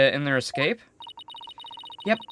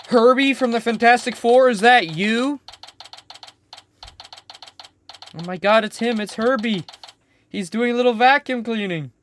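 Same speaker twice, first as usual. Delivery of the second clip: excited recognition; 8 semitones higher, 7 dB louder than usual. Real, not acted. Excited at spotting robot.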